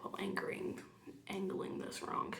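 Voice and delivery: soft unvoiced whisper while concentrating. Real, not acted. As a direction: whisper it to yourself as you work. Whispering while doing brows.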